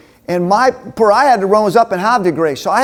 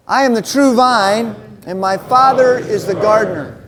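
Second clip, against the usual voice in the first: slow, measured Bible reading; a pastor reading Jesus's words to close the service; scripture reading; slower than usual. Acted. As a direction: read the verse with reverence. Reads scripture aloud.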